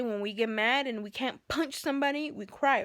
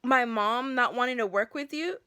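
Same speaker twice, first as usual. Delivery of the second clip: raised, higher, louder demand; confronting dispatcher; 4 semitones higher, 6 dB louder than usual. Retold or imitated. To the dispatcher, a raised angry demand. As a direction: storm in and demand answers. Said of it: "I storm in there".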